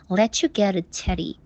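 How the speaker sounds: fluid, linked words with no choppy breaks; flowing. Shown as a demonstration. Teacher showing it as one sentence, flowing delivery. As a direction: run the phrase together as one smooth sentence. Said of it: "行云流水一般的给它发出来".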